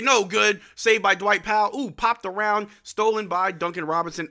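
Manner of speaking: real hyped narration; excited play-by-play. Real, not acted. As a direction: call the scramble as it unfolds. Thrilling play live.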